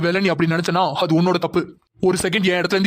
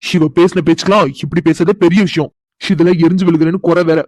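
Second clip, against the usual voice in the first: angry inner rant; 7 dB louder than usual. Acted. Husband grumbling to himself.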